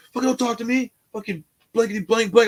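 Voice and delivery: high, snappish mock African accent; thick African accent. Inmate rebuffs a friendly hello, in imitated hostile African accent. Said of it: "he had a very thick accent".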